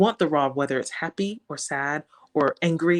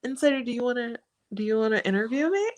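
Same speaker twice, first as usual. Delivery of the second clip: mock excited; 8 semitones higher, faster than usual. Mock calling out to Insider.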